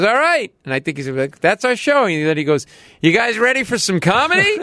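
high, loud emcee voice; hammed-up club emcee; mock MC. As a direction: announce it like a dive-bar MC. MC announcing to bar.

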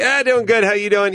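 high quick chirpy answer; reflexive reply. Retold or imitated. Expected reply to a son's greeting, chirpy. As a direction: toss it back on autopilot. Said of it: "you just expect the".

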